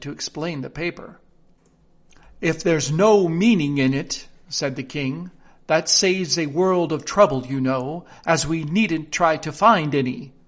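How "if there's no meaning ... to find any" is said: a lightly voiced, pompous king; a touch of a fussy old king reasoning aloud.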